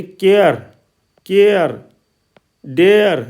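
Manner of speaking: "केयर", "डेयर" with a clear ए gliding into the r; ए-glide vowel demo. Shown as a demonstration. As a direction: model each word alone, falling, "केयर", "डेयर". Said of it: "ए का उच्चारण ए की ध्वनि में". ("केयर", "डेयर" में ए की ध्वनि साफ़)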